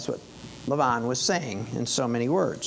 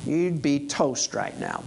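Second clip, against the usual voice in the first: stern warning; 3 semitones higher than usual. Retold or imitated. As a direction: lay down the law with menace. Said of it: "Lavan goes on to say".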